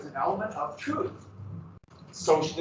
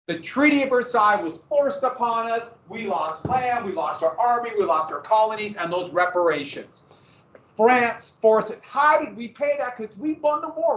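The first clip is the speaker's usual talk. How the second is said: propaganda voice; 4 semitones higher than usual. Pretend. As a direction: rant like an aggrieved nationalist. Voicing Nazi propaganda.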